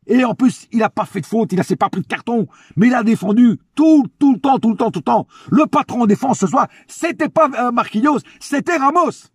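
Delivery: hyped-up high praise; escalating comedy rant. Real, not acted. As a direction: cheer him on like a fan. Excited praise of Ramos.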